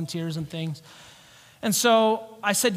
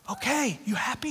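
softer, higher-pitched huff; grudging, quieter retort; mock exasperation; 5 semitones higher, 4 dB quieter than usual. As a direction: drop from a shout to a fed-up question. Retold exasperated reply after shouting.

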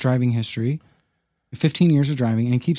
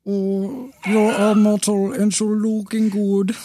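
high, slow put-on German accent; hammed-up fake German accent, drawn out; mock German accent; 9 semitones higher, slower than usual. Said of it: "how do they sound?".

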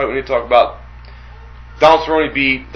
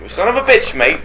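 mock Irish accent; 5 semitones higher than usual. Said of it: "you said".

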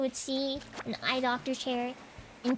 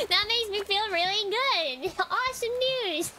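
high, loud, laughing through the words; laughing sarcasm; 9 semitones higher, 4 dB louder than usual. Real, not acted. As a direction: laugh off the bad news ironically. Laughing at her bad news.

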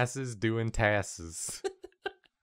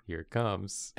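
building suspense; 4 semitones lower, 8 dB quieter than usual. Pretend. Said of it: "I was just building suspense".

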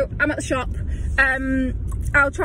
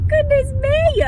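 high, exasperated exclamation; exasperated outburst; 13 semitones higher, 4 dB louder, slower than usual. Real, not acted. Exclaiming over local radio DJs, exasperated. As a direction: let it burst out high in disbelief.

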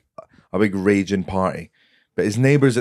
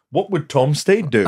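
higher, animated retelling of party bravado; excited self-quote; 7 semitones higher than usual. Retold or imitated. Retelling his own party bravado.

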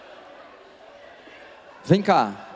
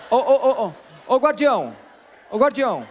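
calling out; 5 semitones higher than usual. Real, not acted. Calling the guardian across room.

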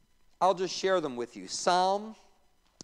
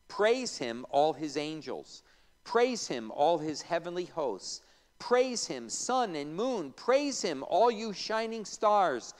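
scripture reading. Acted. Teacher reading the psalm to the class, building praise. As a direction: read the psalm with rising fervour.

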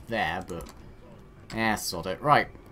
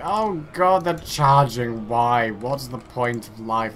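panicked soldier; 7 dB louder, slower than usual. Pretend. Voicing panicked routing soldiers.

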